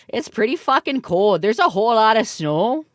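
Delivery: mock Canuck accent, heavy on the eh; a light send-up of a Canadian accent; hammed-up Canadian accent. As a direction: play up the Canadian accent for chat. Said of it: "I'm fucking Canadian".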